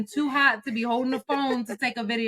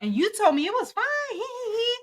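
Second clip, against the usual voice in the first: higher, louder, heated mock rant; angry retold rant; 9 semitones higher, 5 dB louder than usual. Retelling a fight with her, a hot mock rant. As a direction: vent at her like you're furious all over again. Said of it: "I'm like".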